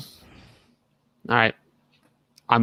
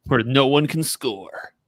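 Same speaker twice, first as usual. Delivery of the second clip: trailer guy voice; slower than usual. Acted. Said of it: "My trailer guy voice".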